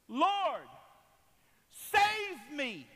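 loud, high, desperate plea; drawn-out shouted prayer; crying out to God. Acted. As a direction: cry out to heaven at full voice. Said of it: "I cried to the Lord".

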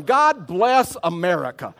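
loud, high, drawn-out patriotic cheer; elated proclamation. Retold or imitated. Man going home after a great day, elated. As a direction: belt it out in mock triumph.

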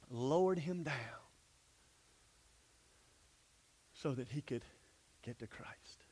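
a soft, fading hushed whisper. Acted. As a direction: let it fall away to a whisper. Sermon climax dropping to hush.

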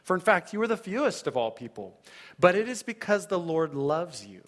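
earnest proclaiming Bible reading; scripture reading. Acted. Preacher reading God's love for Israel, earnest proclaiming. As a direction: read God's love to them with conviction. Reads Deuteronomy seven aloud.

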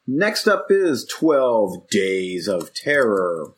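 slow drawn-out silly voice. Pretend. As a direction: announce it in a goofy put-on voice. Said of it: "why am I doing these stupid voices".

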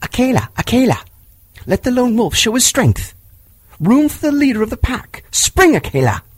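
high, yelling wolf cries; howling young wolves. Acted. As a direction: jeer like a savage wolf pack. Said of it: "wicked, bitter howls from the young wolves".

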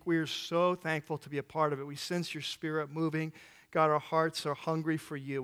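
earnest, steady prayer spoken over the church. Acted. Pastor praying over his church before teaching, earnest and steady. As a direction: pray for the people before the teaching.

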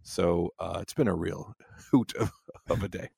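runny nose, hoarse from a cold; sick voice with blocked sinuses; stuffy, hoarse voice. Real, not acted. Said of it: "my nose is running constantly".

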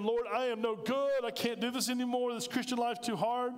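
pleading to the Lord. Retold or imitated. Sinner crying out to the Lord, mock pleading. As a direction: beg God like you've given up. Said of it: "when they come to him".

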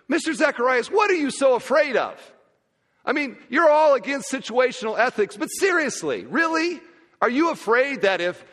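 imitating a student's high-pitched, disbelieving challenge; acted incredulous student, voice climbing on each "really". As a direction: challenge him in mock disbelief, pitch pushed way up.

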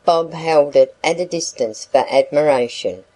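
plain reading voice

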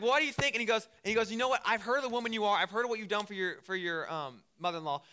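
high, loud, insistent retort; mock exasperation. Boaz tells Ruth what he has heard, playfully exasperated. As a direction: spell it out as if it's obvious. Acted Boaz answering her fishing question.

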